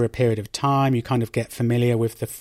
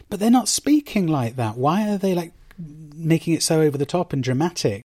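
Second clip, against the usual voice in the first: higher-pitched baffled complaint; exasperated disbelief; 4 semitones higher than usual. Acted. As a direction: protest like a puzzled viewer. Acted quote of puzzled viewer.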